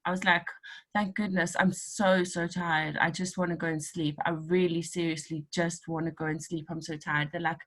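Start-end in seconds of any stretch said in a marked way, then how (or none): 0.9-7.3 mock exhausted. Retold tired reply.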